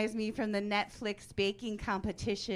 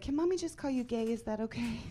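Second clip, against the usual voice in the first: higher-pitched, tentative request; coaxing mommy; 4 semitones higher than usual. Retold or imitated. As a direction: lightly imitate a mother coaxing her child. Mom sweetly asking her kid.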